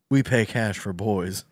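slow used car salesman pitch. Acted. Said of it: "This is like a used car thing".

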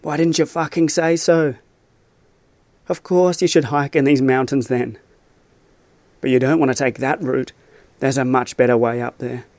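a hint of a mixed Australian-Scottish accent. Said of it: "took on a warped accent, somewhere between Australian and Scottish".

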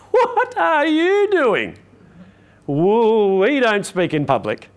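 high, slow, alarmed inner voice; the anxious little voice inside, startled; panicky inner voice. Acted. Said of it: "My little voice is going to go".

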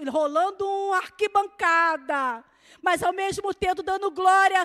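usual speaking voice

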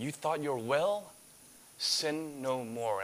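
slow, soft and earnest; a slow, tender word of caution; gentle voice of Jesus. Acted. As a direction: warn him kindly, taking your time. Jesus speaking to healed man.

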